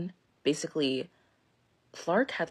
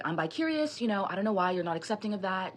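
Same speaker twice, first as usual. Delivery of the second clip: mock pleading excuses; 4 semitones higher than usual. Mimics boyfriend's endless excuses on drive.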